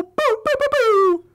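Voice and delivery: mock booing. Mocking Anthony's dull podcast talk.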